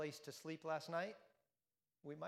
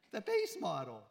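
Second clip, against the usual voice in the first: THE BASE MODEL, much louder, for effect; emphatic repeat; 3 semitones higher, 9 dB louder than usual. Acted. Preacher repeats the car's price point, louder. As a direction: hammer home how pricey.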